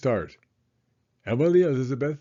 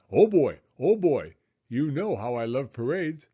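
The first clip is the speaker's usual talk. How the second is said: eager dog. Acted. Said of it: "Tucker barked to Clifford".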